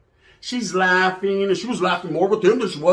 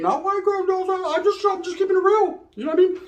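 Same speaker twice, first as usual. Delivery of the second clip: much higher put-on valley girl; mock white girl voice; 12 semitones higher than usual. Comedian slips into a high white girl voice. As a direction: voice a white girl defending herself.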